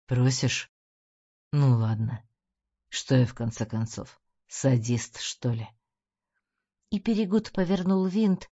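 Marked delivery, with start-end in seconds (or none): 0.1-5.7 a menacing boss teasing his victim; mocking gangster boss. A narrator's reading. Peregud voiced low.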